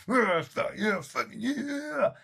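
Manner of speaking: mock angry player's muttered sarcasm, rising high; hammed-up stomping grumble, slowing and fading at the end; imitating sulky anger. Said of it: "he was so angry with me".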